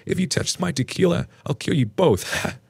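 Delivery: high-pitched tipsy mom voice; playful threat. A narrator's reading. Ex's mom joking about her tequila, playfully threatening. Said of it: "She laughs and says".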